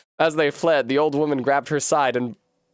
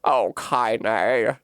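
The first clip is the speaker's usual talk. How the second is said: tender grandma; 2 semitones lower than usual. Shown as a demonstration. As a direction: say her name gently. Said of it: "No, that's not as good".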